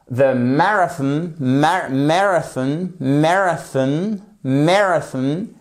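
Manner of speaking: slow "marathon", stressed on the first syllable. Shown as a demonstration. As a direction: drill "marathon" slowly, leaning on MAR. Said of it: "Vous avez l'accentuation sur la première syllabe". (« marathon » lentement, accent sur la première syllabe)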